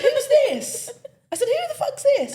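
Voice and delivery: very high, loud laughing yelp; shrieking laughing who's-this; laughing outrage. Retold or imitated. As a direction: squawk it out through laughter. Retold confused answer, laughing.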